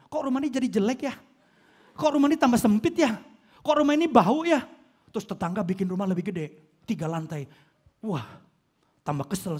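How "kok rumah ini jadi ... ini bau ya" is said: higher, louder whining complaint; complaining homeowner. Retold or imitated. Homeowner a year later, high whining complaint. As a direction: grumble more with each line. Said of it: "Mulai enam bulan, setahun".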